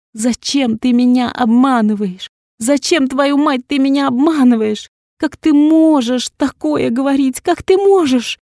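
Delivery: high, loud sobbing accusation; hysterical accusation. A narrator's reading. Heroine screaming accusations at the nurse. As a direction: rage at her betrayal.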